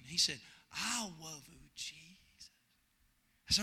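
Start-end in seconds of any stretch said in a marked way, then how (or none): 0.7-2.5 soft, shy little prayer; shy child. Retold or imitated. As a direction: barely dare to say it, soft. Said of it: "just real shy".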